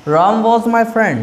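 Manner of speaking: very slow, words spaced apart; slow dictation. Shown as a demonstration. Teacher dictating a past tense example slowly. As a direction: dictate it word by word.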